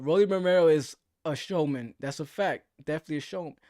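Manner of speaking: talking around a mouthful of dip; words round a wad of tobacco; lip full of dip. Real, not acted. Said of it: "let me spit real quick".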